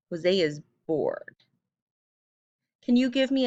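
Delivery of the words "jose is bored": "Jose is bored" said slowly, each word weighted; slow, stressed conclusion. Shown as a demonstration. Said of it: "I could infer here".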